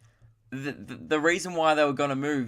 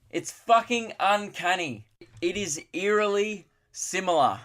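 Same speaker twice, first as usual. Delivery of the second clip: mock amazement; 6 semitones higher than usual. Podcaster revealing an absurdly obvious likeness, mock-amazed. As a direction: marvel at it with exaggerated wonder.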